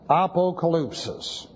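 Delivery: "Apocalypsis" as ah-poh-ka-LOOP-sis, ending on a rise; Greek pronunciation. Shown as a demonstration. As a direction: repeat "Apocalypsis" in Greek, tune rising at the end. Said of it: "This is".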